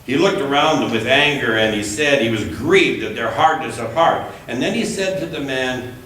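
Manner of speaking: measured, deliberate Bible reading; unhurried lectern reading with gentle emphasis; scripture reading. Acted. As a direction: read the Gospel to the congregation. Reads scripture passage aloud.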